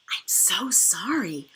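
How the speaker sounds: slow, breathy whispered apology. A narrator's reading. The cook whispering to the child, slowly apologising. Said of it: "Mister Nuggy whispers to me".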